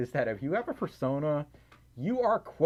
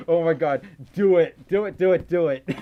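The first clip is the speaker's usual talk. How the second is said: loud, rapid-fire urging; loud excited chant; excited egging on; 3 semitones higher, 10 dB louder than usual. Real, not acted. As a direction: cheer them on loudly, repeating with rising excitement. Excitedly eggs on drawing idea.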